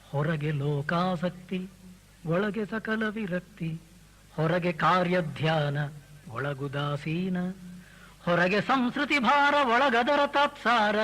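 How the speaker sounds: slow, measured verse chant; reciting Mankutimmana Kagga to the audience; poem recitation. Acted.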